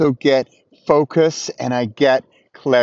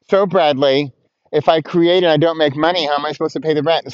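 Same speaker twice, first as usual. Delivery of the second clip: lightly whiny mock objection; mild put-on whine. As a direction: complain like a doubting follower, speeding up at the end. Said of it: "That's my whiny voice".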